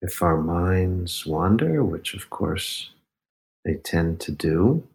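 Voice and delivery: guided meditation. Acted. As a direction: lead the breath gently, unhurried. Leads a breathing meditation.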